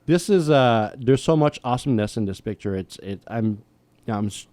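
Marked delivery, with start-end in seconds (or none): 2.8-4.5 halting, restarting mid-sentence; fumbling for words. Real, not acted. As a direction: stumble over the words, searching. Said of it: "stumbling for words here".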